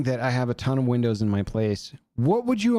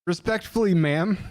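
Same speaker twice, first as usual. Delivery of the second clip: mock polite; 5 semitones higher than usual. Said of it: "And I was like".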